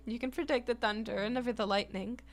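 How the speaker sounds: loud, grand showman voice; booming Quinn. Acted. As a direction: boom it out like a proud chef covering sadness. Quinn shrugs off melancholy.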